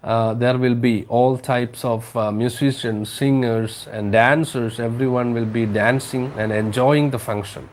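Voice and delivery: slow, careful read-aloud for the class; slow story reading. Acted. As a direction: read each word out slowly to students. Slow English paraphrase for class. (പതുക്കെ കഥ വായിക്കുന്നു)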